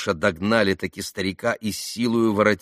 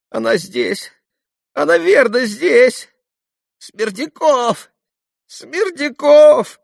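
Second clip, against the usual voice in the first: ordinary delivery, nothing marked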